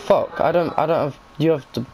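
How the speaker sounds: tripping over the words; stuttering. Real, not acted. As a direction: stammer and restart. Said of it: "fucking stuttering".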